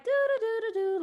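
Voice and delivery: high, mock-oblivious sing-song; playful singsong. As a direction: hum it like you can't hear a thing. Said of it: "played like".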